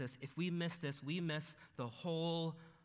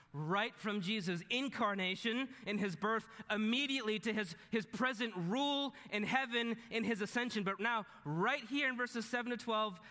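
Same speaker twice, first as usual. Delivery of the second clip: higher-pitched, driving sermon delivery; emphatic preaching; 6 semitones higher, 4 dB louder than usual. Real, not acted. Preacher tells friends where the camera jumps, emphatic preaching. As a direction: build momentum through the point.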